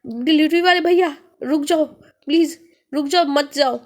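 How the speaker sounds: acted urgent yell after someone; desperate shout. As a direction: cry out, begging him to wait. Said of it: "वह जोर से चिल्लाया".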